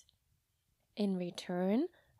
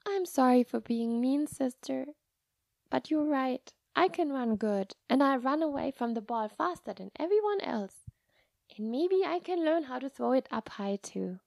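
put-on apologetic little girl; 3 semitones higher than usual. Child apologising.

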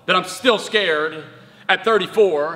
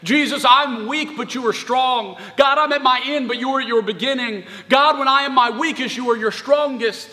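prayerful plea; 4 semitones higher than usual. Acted. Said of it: "We go to Jesus and we say".

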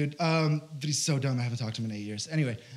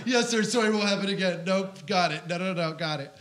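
eager compliance; 4 semitones higher than usual. Retold or imitated. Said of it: "I'm just like".

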